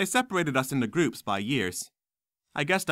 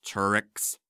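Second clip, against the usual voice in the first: snarl; 3 semitones lower than usual. Acted. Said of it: "snarled Smape".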